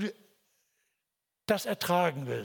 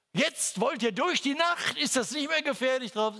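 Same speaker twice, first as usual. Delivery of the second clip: mock warning; 8 semitones higher, 3 dB louder than usual. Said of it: "Wir hätten nur sagen können".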